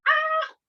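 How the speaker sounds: sudden high yelp of pretend fright; mock startled yelp. Coach acting out a nurse's shot, high mock yelp. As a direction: jump at an imaginary needle with a high "Ah!". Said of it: "pretend somebody, a nurse ... is coming at you with a big old shot".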